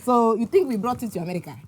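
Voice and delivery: scolding Nigerian mom. Retold or imitated. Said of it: "impression of your mom or auntie".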